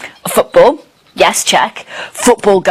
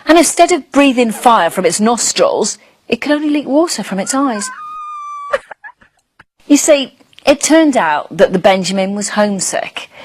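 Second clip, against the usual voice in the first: lively storybook read for little ones; reading to children. Acted. Presenter reading a bedtime story to young viewers, lively. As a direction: tell it like a bedtime tale to a small child. Reads picture book to children.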